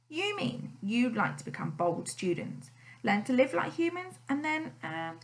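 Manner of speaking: rising hope toward the end; a touch of hope, mostly plain; hopeful. A narrator's reading. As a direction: ask it hoping for yes. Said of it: "asked Mister Bold hopefully".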